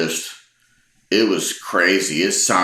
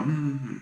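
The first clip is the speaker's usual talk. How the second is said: soft, higher-pitched exasperated hum; a quiet hum of growing annoyance; exasperated sigh; 8 semitones higher, 9 dB quieter than usual. Retold or imitated. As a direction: imitate a fed-up, sighing "hmm". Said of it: "I'm sighing, I'm breathing hard".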